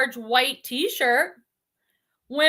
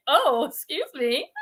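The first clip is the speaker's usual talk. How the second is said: slow, mock-indignant Boston accent; drawn-out Boston sass, played for laughs; Boston girl; slower than usual. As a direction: imitate an aggravated Boston girl.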